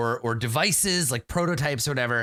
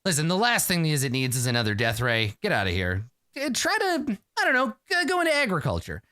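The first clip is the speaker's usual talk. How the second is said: mocking dismissal; 3 semitones higher than usual. Ral sneering at the inventor to give up, mocking. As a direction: brush him off with a sneer.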